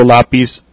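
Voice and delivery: lápiz with a plain s sound at the end; Latin American lápiz. Shown as a demonstration. Teacher showing the Latin American lápiz, s sound. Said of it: "In Latin America, you would say".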